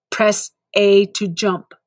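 slow mechanical game instructor; slow canned drill-sergeant prompt; robotic tutorial prompt. Acted. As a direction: repeat it like a looping game line. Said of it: "robotic repeat".

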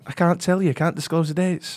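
put-on Northern England accent; reply in a northern English accent. Shown as a demonstration. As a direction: Scot posing as northern English. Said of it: "keep talking in the accent".

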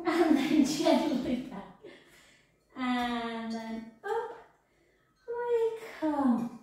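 breathless, laughing through it; puffing between words; out of breath. Real, not acted. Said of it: "and I'm out of breath".

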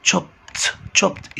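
chopped ending with a clear t sound; تشوبت: end on a crisp t, no vowel before it. Shown as a demonstration. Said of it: "بقت تشوبت".

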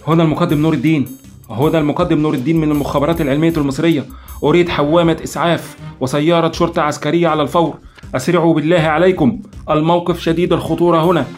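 officer shouting for help over the radio; urgent radio call. A narrator's reading. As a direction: rush the emergency call. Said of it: "وصاح عبره".

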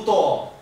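ウと with a drawn w before the u, like "wuutoo"; ウと as Okinawan for husband; Okinawan wu sound. Shown as a demonstration. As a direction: say ウと loudly with a wu onset. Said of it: "夫はウとって言うんです".

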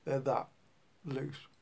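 talking around pipe stem; clenched teeth speech; pipe in mouth. Real, not acted. Seen 0: Pipe clenched in teeth while talking, smoke rising throughout.

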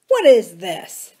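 loud, slow demand. A narrator's reading. Adam to Samuel and Lee, insisting on being told, loud and slow. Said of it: "Adam demanded".

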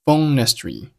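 "phone history" run together without h; linked words. Shown as a demonstration. Teacher showing learners linking, "phone history" with no h. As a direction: carry the n of "phone" into "history", h dropped. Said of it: "history开头的h给击穿".

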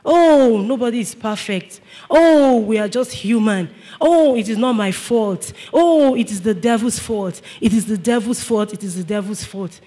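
hammed-up blame-shifting, trailing off; whiny excuse-making. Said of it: "We should stop making excuses".

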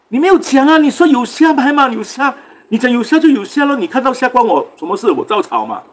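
high-pitched imitation of an angry hawker; angry retort. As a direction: retell his indignant comeback, pitched well up. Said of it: "哇，气到他啊".

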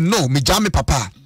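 put-on young man's words. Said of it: "Aberanteɛ sɛ".

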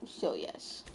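very low, breathy whisper. Acted. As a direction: hush it down. Dropping into a voice.

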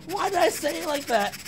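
high, giggly disbelief; laughing. Real, not acted. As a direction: still cracking up, voice way up high. Cracking up at own delivery.

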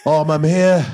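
Idris Elba impression. Shown as a demonstration. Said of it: "Idris Elba in you".

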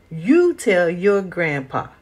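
the mule snaps back, slow and stubborn; snapping mule. Acted. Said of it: "snapped the mule".

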